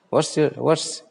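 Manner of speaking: "What's" begun with a rounded w; correct w sound. Shown as a demonstration. Teacher modelling for learners, w at the start of "What's". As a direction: glide into "What's" on w, no bh. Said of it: "it's not bha sound".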